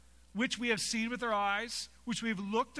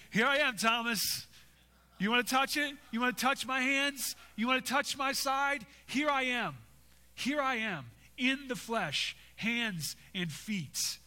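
Jesus offering his wounds; 4 semitones higher than usual. Acted. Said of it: "Jesus shows up and says".

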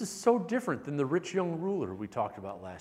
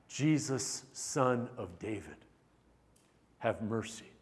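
reverent plea; 3 semitones lower than usual. Retold or imitated. Blind man crying out to Jesus in hushed reverence. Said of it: "Notice the awe and the reverence".

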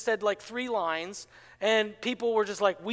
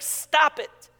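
sharp rebuke; 6 semitones higher, 5 dB louder than usual. Acted. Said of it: "he's like".

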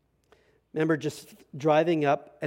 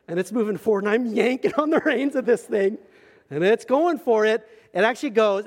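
loud, high, worked-up storytelling; animated retelling; 6 semitones higher, 6 dB louder than usual. Retold or imitated. Preacher telling of his mule at the canyon edge, animated retelling. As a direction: relive the scare at full volume, pitched up. Acting out near fall at rim.

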